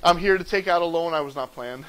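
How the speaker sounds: low, mock-sheepish introduction; deadpan confession. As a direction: state it low, as if awkwardly confessing. Acts out awkward bank introduction.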